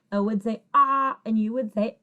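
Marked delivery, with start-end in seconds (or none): 0.7-1.2 "ah" as the short O in dog; short O sound. Shown as a demonstration. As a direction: say "ah" as an isolated short-O vowel. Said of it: "Those are the short vowel sounds".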